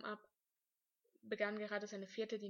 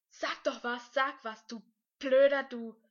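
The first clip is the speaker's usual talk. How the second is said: loud, higher-pitched outburst; exasperated yell; 4 semitones higher, 17 dB louder than usual. A narrator's reading. Boy yells at his silent rival, exasperated. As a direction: shout in bursts, demanding a response.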